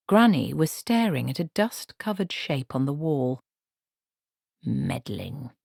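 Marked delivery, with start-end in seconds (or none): 4.6-5.5 whispered. A narrator's reading. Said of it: "she whispered".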